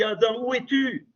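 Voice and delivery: God calling softly into the garden; God calling Adam. Retold or imitated. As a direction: call out gently as God searching for Adam. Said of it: "quand il dit".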